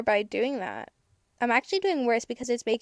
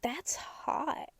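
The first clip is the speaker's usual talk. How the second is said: much softer, teasing; 3 semitones higher, 9 dB quieter than usual. Acted. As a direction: purr it quietly. Repeats saucy remark.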